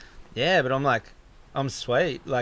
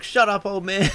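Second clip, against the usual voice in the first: shouted cheeky retort, higher; louder mock retort; 7 semitones higher, 5 dB louder than usual. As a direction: yell it cheekily at the old man. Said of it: "you're like".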